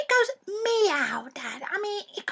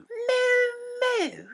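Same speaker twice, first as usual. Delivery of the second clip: mocking echo; 5 semitones higher than usual. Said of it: "Cows don't go moo".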